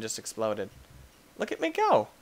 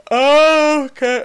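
high mock voice; 9 semitones higher, 8 dB louder than usual. Reacting in game.

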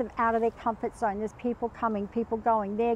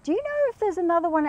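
quick, higher-pitched retold question; rapid higher query; 7 semitones higher, faster than usual. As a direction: quote yourself asking in a hurry. Quotes herself asking flatmate.

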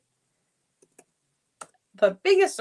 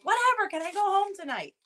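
higher mock kid voice, shrugging it off; imitating bored son; 10 semitones higher than usual. Son hears about stitches, answers in mock bored kid voice. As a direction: play the unbothered little boy who only wants home. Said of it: "he was honestly saying".

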